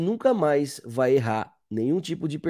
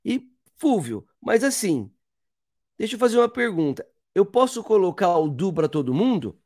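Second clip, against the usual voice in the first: a lightly voiced student breaking in, higher pitch; curious student; 4 semitones higher than usual. Teacher voices an imagined student questioning him, lightly higher. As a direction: play a pupil cutting in with a question.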